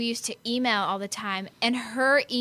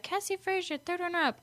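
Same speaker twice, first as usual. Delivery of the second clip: higher mock announcer call; 8 semitones higher, 4 dB quieter than usual. Pageant host announcing the placing, lightly mocked.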